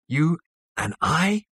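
slow, high-pitched disbelieving question; angry. A narrator's reading. Zaphod throws Zarniwoop's words back at him, slow anger. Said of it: "said Zaphod angrily".

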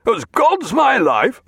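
loud, slow sea-captain bellow; Jack raging. A narrator's reading. Jack roars at the idle clerk, angry. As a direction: tear into the clerk.

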